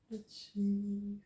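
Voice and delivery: mid-yawn words. Real, not acted. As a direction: say it through a yawn. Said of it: "I'm yawning over here".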